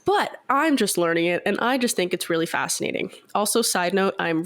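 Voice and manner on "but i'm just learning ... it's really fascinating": stuffy blocked nose; congested voice. Real, not acted. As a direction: speak with a head cold. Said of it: "I'm sorry if I sound really congested".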